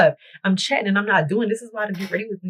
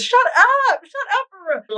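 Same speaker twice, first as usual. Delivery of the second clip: exasperated retort; 12 semitones higher than usual. Retold or imitated. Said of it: "we all gotta deal with this".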